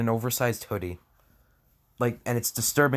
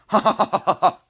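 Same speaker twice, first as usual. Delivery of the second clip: a big hammed-up laugh, higher and louder; mock hearty laugh; 9 semitones higher, 6 dB louder than usual. The fanfic hero laughing to comfort Lena, hammed-up. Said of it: "You couldn't help but chuckle".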